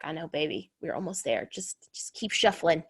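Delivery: soft, low and gentle; calm her down tenderly; soothing mom. Retold or imitated. Mother comforting her daughter who is tired of Zoom, softly reassuring.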